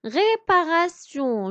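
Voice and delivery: "réparation" split into clear syllables. Shown as a demonstration. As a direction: chop "réparation" up for pupils. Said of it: "Je découpe le mot réparation". (« réparation » découpé en syllabes)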